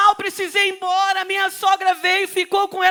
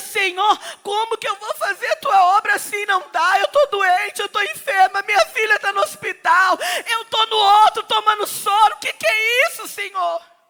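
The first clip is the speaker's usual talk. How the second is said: mock, tearful, pleading cry. Retelling own past prayer under a pitanga tree: retelling a tearful plea. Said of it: "Eu chorava debaixo do pé daquele pitanga".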